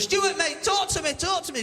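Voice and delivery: high urgent plea to a mate; acted alarm, urgently repeated; panicked pleading. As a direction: beg him to respond, pitched well up. Pleading with collapsed, struggling friend.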